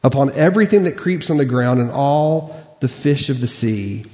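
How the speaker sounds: measured, solemn Bible reading; scripture reading. Acted. Pastor reading Genesis to the church, measured and solemn.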